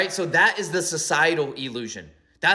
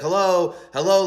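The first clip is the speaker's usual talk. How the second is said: raised, mildly insistent hello; calling out; 3 semitones higher, 5 dB louder than usual. Acted. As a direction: call out to get their attention. Calling out to cave dwellers.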